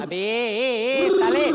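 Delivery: loud, rising confrontational shout; angry challenge. Acted. Man confronting his pigeon rival, angry shout.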